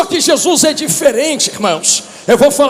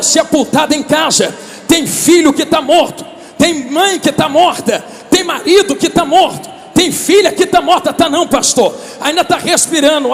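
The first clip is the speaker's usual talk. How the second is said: fervent preaching. Acted. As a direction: preach it with fire to the crowd. Preaching at full force. (pregação fervorosa e alta)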